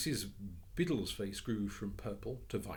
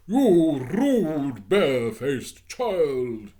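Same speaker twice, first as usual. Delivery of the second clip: loud, high, very slow scolding; outraged scolding; 8 semitones higher, 19 dB louder, much slower than usual. Acted. Missus Biddle scolding Jane, outraged. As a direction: spit out the insult in fury.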